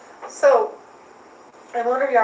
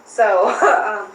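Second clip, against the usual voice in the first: laughing; 3 semitones higher, 10 dB louder than usual. Real, not acted. Still laughing after the text.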